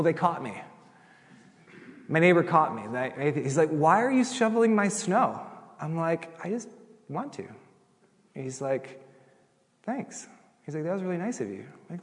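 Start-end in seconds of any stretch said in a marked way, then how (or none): 3.7-5.4 higher, slow baffled question; puzzled neighbor. Retold or imitated. Neighbor catching pastor shoveling his snow, higher and slow. 6.4-7.4 soft, high, bashful answer; sheepish reply. Retold or imitated. Pastor caught shoveling, softer bashful reply. 9.8-11.6 high, soft grudging thanks; awkward thanks. Retold or imitated. Neighbor thanking pastor for shoveling, soft and awkward.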